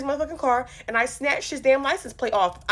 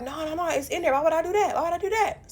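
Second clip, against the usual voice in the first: put-on defensive boyfriend; 7 semitones higher than usual.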